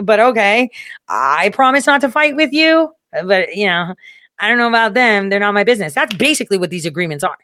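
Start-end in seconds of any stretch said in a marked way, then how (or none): 0.0-5.9 higher grudging mock Russia; half-promise in a raised put-on voice. Russia grudgingly promising not to fight, higher mock voice.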